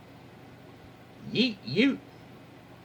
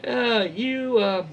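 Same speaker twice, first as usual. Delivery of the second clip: retold shout; 7 semitones higher, slower than usual. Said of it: "He then shouts at his brother".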